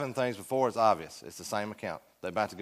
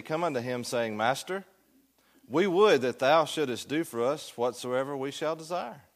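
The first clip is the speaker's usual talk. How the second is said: formal Bible reading to a class; scripture reading. Acted. Teacher reads Mark's account to the class, scripture reading. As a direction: read the verse aloud with measured emphasis.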